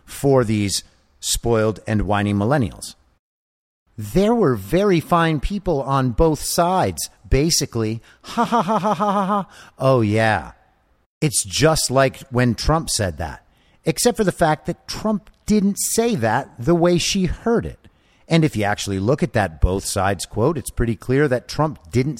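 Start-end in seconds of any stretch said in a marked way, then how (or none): 4.0-8.0 put-on whiny childish voice, pitched up; small child voice. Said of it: "a grown man making a small child voice". 8.2-9.5 put-on high, fast, whiny kid cackle; childish mock laugh. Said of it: "a grown man making a small child voice". 9.8-17.8 put-on whiny childish voice, pitched up; small child voice. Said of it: "a grown man making a small child voice".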